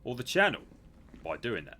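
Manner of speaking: high, loud put-on voice; Simon Miller. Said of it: "can we request Simon Miller?".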